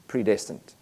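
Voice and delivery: predestined given weight and slowed a little; predestined pressed home; stress on predestined. Shown as a demonstration. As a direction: lean on the word predestined. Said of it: "And I stress that word predestined".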